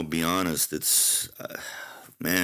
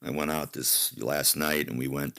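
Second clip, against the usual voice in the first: hungover; 3 semitones lower than usual. Real, not acted. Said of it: "I'm a little hungover".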